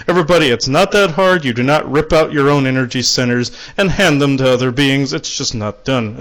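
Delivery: mock-stern playful lecture; playful manner. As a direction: chide the whole room playfully. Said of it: "That's what he's, how he's saying it".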